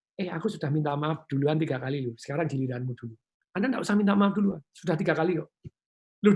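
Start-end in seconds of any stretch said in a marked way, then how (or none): 0.1-3.2 calm reminder. Shown as a demonstration. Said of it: "Anda boleh bilang".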